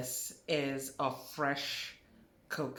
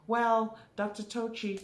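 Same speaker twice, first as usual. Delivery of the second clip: imitating questioning students; 8 semitones higher, 6 dB louder than usual. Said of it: "they will come back and say".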